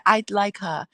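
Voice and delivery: a light, badly done Jamaican accent, slowing on the second line; a hint of Jamaican accent quoting Usain Bolt; terrible Jamaican accent. Host quotes Usain Bolt praising Sha'Carri in a light, poor Jamaican accent. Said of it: "my terrible Jamaican".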